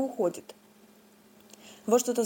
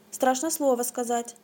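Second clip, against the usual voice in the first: bleating ram; 2 semitones higher than usual. Acted. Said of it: "заблеяла баранья голова".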